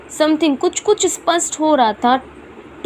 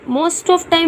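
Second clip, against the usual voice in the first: slow read; 3 semitones higher, much slower than usual. Shown as a demonstration.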